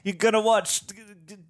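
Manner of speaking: stuttering, hammed-up British voice; mock London accent. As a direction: trip over it as a fake Londoner. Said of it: "you sound like you're from London".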